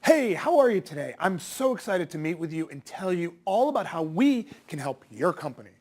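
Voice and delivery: loud, eager, over-the-top salesperson greeting; cheesy sales voice. Shown as a demonstration. Salesperson greeting a prospect on a call, hammed-up cheesy enthusiasm. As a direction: gush like a cheesy salesperson pitching. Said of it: "something that sounds like this".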